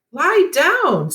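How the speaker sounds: a sharp high, loud order; commanding. A narrator's reading. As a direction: stop him getting up, firmly. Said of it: "Seth's mother commanded".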